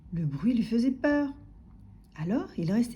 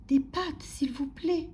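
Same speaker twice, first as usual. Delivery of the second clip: small higher-pitched voice; timid little customer; 5 semitones higher, slower than usual. A narrator's reading. Timid customer repeating order to grocer, meek. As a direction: repeat it meekly and politely.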